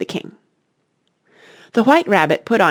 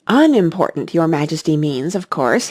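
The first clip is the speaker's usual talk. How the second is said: respectful tone. Acted. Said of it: "in a very respectful tone".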